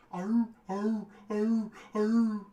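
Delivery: high, drawn-out dog howls; bay like a faraway hound; imitated distant dog baying. Hound off in the long distance, imitated baying. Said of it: "Off in the long distance, you hear".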